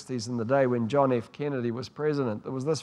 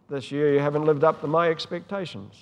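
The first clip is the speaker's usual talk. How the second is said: a hint of a stern dad, louder; stern father; 4 dB louder than usual. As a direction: lecture the children like a disappointed father. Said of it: "Dad stood there with a stern face saying".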